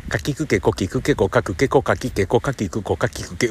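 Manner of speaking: deliberate ka-row drill; articulation drill. Shown as a demonstration. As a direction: drill each syllable cleanly. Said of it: "うわー、滑舌悪い".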